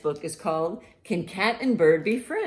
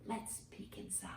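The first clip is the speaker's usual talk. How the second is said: hushed secret whisper; 4 semitones higher, 18 dB quieter than usual. Acted. Teacher whispering to the children while peeking into the egg. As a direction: whisper as if not to wake it.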